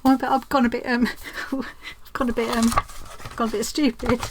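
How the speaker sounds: breathless after the stairs; puffing between words; out of breath. Real, not acted. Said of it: "I'm out of breath now from running up and down the stairs".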